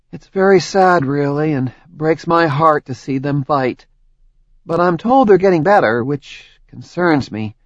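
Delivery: Tori, a touch sad and rueful; wistful, a hint of heartbreak; mild sadness. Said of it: "Her expression turned dark and sad".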